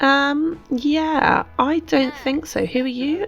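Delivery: a hint of a snooty stranger brushing off a handshake; voicing Queenie. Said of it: "Queenie's been like".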